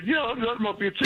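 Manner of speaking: mimicking her. Quoting her, defensive high.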